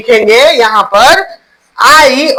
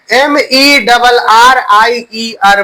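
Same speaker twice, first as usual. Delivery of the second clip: slow spelling out; much slower than usual. Shown as a demonstration. Teacher spells word for class.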